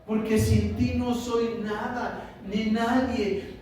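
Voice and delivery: high, drawn-out cry to God; tearful plea. Acted. Telling God he is nothing without Him, tearful plea. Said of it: "es este lloro de decir".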